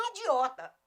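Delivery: IDIOTA as "INdiota", loud nasal start; wrong nasalized vowel. Shown as a demonstration. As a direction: say IDIOTA with an exaggerated IN in front. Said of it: "É a mesma coisa".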